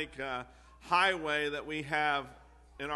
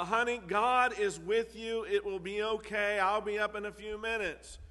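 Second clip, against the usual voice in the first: higher-pitched, lightly acted exasperation; mildly aggravated dad; 5 semitones higher than usual. Father answers his scared daughter from downstairs, mildly aggravated. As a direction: imitate a dad's mild impatience. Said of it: "he gets kinda aggravated and says".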